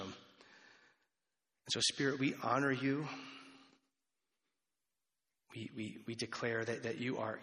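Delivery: hushed closing prayer from the pulpit; pastoral prayer. Acted. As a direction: pray gently over the congregation.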